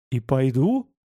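controlled, near-calm retort; composed, with contained feeling; almost calm. A narrator's reading. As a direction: answer back almost calmly. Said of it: "почти спокойно сказал я".

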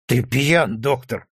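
mock-laughing accusation rising high; hilarity without a real laugh; amused drunken exclamation. A narrator's reading. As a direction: tease him, tickled and tipsy. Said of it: "снова засмеялся Рогачёв".

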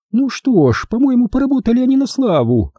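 very high-pitched, approving grandmother; high, mollified old-lady voice; Maisie, softened. A narrator's reading. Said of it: "Мэйзи смягчилась".

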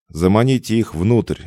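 shouted high and loud, out of breath; breathless shout. A narrator's reading. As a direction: yell the order while gasping. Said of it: "задыхаясь, прокричал он".

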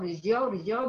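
رجعوا begun on bare r, "rji'u"; vowelless first letter. Shown as a demonstration. Teacher asks can I say it so, bare r onset. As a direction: try رجعوا with no vowel before the r. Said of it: "ينفع أقول".

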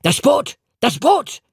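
high, urgent yell of the warning; shouting high and loud for the boat; frantic shout. A narrator's reading. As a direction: cry out in panic to your accomplice. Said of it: "rief eine Stimme auf Deutsch".

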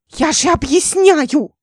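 high, loud and slow, fed up; exasperated outburst. A narrator's reading. Ника кричит на Дмитрия, раздражённо. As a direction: Nika shouting at Dmitry in frustration. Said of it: "Ника стала трясти кулачками".

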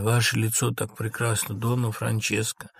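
subdued, mournful praise; understated melancholy; sad. Acted. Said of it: "Лоренцо печально".

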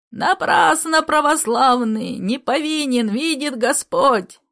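put-on high, slow, pleading old man's wail; piercing shriek. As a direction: shriek it out in desperate protest. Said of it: "Пронзительно взвизгнул дед".

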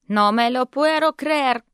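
loud, slow Spanish outburst; yelling cousin. Acted. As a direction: she yells No me lo puedo creer in despair. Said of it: "орала моя кузина". (в ярости кричит «No me lo puedo creer!»)

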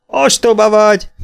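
high, loud outburst; shouted insult. A narrator's reading. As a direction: shout it out scornfully. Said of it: "kiáltotta a köpcös".

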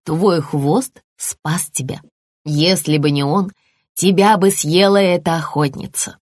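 put-on a mother soothing her scared child; calm mother lizard, reassuring.

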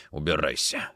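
low, subdued dismissal; hoarse. A narrator's reading. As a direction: send him away, rage spent. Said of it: "сказал он хрипло".

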